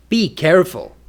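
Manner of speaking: firm "Be careful" with falling end; command intonation. Shown as a demonstration. Teacher demonstrating a command, firm falling tune on "Be careful". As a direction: give "Be careful" as an order. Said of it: "For a command".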